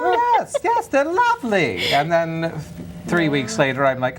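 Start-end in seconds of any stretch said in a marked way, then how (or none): 0.0-1.9 insistent gushing. Retold or imitated. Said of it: "insisting to Jamie".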